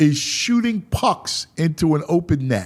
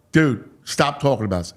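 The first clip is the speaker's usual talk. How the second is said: low, mildly weary reproof; retold telling-off, pitched down; chastising; 5 semitones lower than usual. Ballplayer repeating his request to the host, chastising. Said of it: "He was kinda chastising me".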